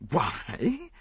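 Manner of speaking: high, drawn-out query; taken-aback stammer. A narrator's reading. Friend challenged about the maid, high and flustered. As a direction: question it high, mildly flustered. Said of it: "I stammered".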